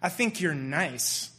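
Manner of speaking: slow, deadpan quoting of the note; slow, flat reading. Retold or imitated. A friend reads out a girl's love note, slow and deadpan. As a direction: read the note slowly, unimpressed. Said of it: "she's saying".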